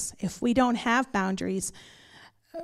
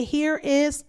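mom's challenge; 4 semitones higher, slower than usual. Retold or imitated. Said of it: "She would say".

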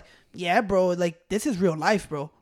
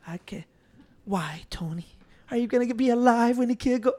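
Tony Montana; 6 dB quieter than usual. Retold or imitated. Acting out the movie scene for friends, hushed Tony Montana voice. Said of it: "everybody try to do, uh, Tony's voice".

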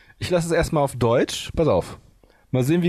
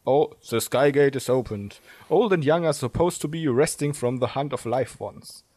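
poem recitation. Acted. Liest die englische Übersetzung vor.

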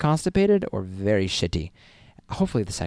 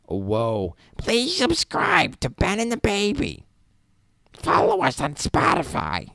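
high, squinting, screechy comic rasp, much higher and louder; Gilbert Gottfried impression; 12 semitones higher, 5 dB louder than usual. Podcaster signing off as Gilbert Gottfried, high and loud. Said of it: "That's my, uh, Gilbert Gottfried impression".

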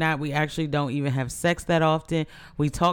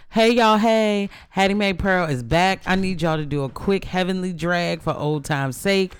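heavenly voice; 3 semitones higher than usual. Retold or imitated. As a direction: read it like a voice from heaven. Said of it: "heavenly voice".

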